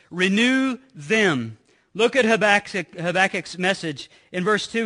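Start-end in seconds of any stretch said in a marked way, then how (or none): 0.1-1.6 slow recitation. Shown as a demonstration. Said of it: "What does it say on the count of three?".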